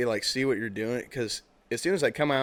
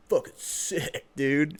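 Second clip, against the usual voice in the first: slightly raised, exaggerated hype voice; mocking enthusiasm; 3 semitones higher, much slower than usual. Friend making fun of the five-dollar tee, mocking. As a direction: imitate a friend poking fun. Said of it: "you don't talk like that".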